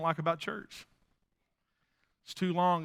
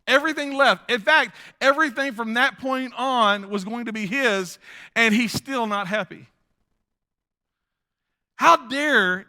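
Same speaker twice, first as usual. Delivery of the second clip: higher, louder preaching build; rising preaching; 4 semitones higher, 5 dB louder than usual. Acted. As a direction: press the point with rising fervor. Preaching rises in force.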